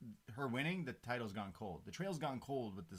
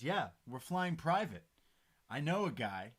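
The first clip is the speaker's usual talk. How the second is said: louder, lifted retold brag; excited boast; 3 semitones higher, 7 dB louder than usual. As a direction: boast as the wrestler, imitated. Acting Riddle's breezy boast.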